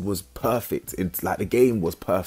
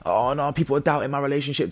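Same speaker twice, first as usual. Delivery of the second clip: mock crying; 6 semitones higher than usual. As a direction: mimic a crybaby with crocodile tears. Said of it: "these crocodile tears".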